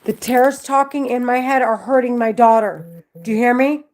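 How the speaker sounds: loud, urgent and distressed; escalating agitated rant. Real, not acted. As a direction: push it out, pleading to be heard.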